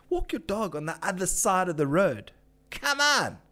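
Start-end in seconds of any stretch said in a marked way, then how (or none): 2.7-3.4 high, pleading exasperation; fed-up plea to inconsiderate dog owners; exasperated. Real, not acted. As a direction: groan it at the dog walkers. Ranting at careless dog walkers.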